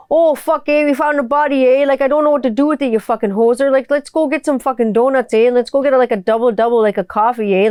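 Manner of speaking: mock Trailer Park Boys-style Canadian banter; exaggerated Canadian accent. Van full of guys passing Tim Hortons, hammed-up Canadian accent. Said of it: "talk like this".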